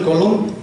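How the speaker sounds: "colon" mispronounced as co-LON, final syllable strongest; stress on last syllable. Retold or imitated. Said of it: "acentuó más fuerte la última sílaba".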